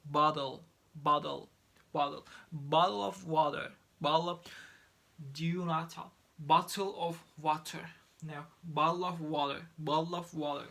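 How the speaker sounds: bottle said loudly with a quick D, like boddle; flap T in bottle. Shown as a demonstration. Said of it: "It's gonna be pronounced".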